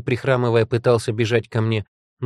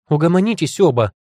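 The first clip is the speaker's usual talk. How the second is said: high, louder command; demanding; 6 semitones higher, 5 dB louder than usual. A narrator's reading. Heroine breaking up a squabble between two, demanding. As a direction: demand that it stops, raised voice. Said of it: "потребовала".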